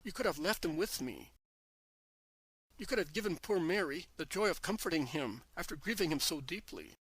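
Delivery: a sister crying out her loss at his feet; sobbing plea to her master; anguished cry. Acted. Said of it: "she shouts".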